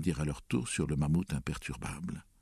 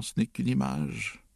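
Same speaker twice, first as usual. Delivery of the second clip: high, tearful little excuse; snivelling child's voice; sniffling; 7 semitones higher than usual. A narrator's reading. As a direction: plead it through sniffles. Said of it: "dit-il en reniflant".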